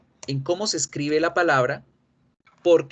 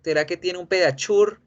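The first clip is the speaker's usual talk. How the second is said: cliente de droguería; 4 semitones higher than usual. Acted. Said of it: "Cada vez que van a la droguería".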